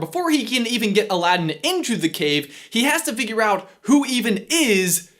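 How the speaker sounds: energetic host delivery; presenter read. Acted. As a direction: drive through the script with punch. Reads scripted line to camera.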